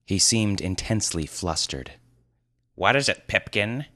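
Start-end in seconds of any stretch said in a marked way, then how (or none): 2.7-3.9 raised, questioning wizard voice; demanding sorcerer. Acted. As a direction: press him for an answer. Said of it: "demanded the sorcerer".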